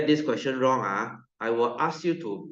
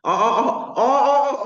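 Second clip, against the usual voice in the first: real realisation; 12 semitones higher, 7 dB louder, slower than usual. Real, not acted. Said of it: "realising what the student means".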